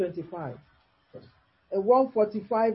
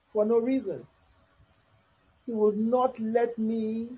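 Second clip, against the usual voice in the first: scripture reading. Acted. Preacher reading Job's lament to listeners, measured scripture reading. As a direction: read the verse out phrase by phrase.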